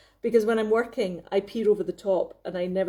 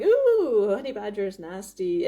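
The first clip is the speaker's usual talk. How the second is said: imitated American accent; 3 dB louder than usual. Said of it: "some American accent just going".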